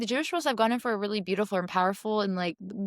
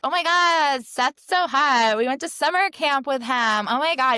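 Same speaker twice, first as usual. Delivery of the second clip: put-on higher, louder, slow gushing girl; gushing excitement; 4 semitones higher, 5 dB louder, slower than usual. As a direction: gush over a crush, drawn out. Gushing role lines quoted.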